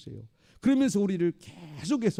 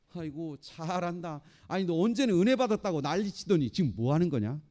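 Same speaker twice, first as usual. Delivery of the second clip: mocking. Devil taunting a believer who once boasted of grace, mocking. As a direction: jeer at a fallen believer. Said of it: "이게 조롱하는 조롱".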